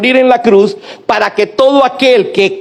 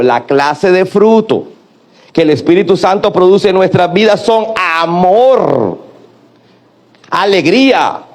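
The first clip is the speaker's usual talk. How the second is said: drawn out for the church to echo "la clase de fruto"; slow call-and-response phrasing; slow, spelled-out repeat line. Shown as a demonstration. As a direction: lead the congregation, word by word. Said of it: "diga conmigo".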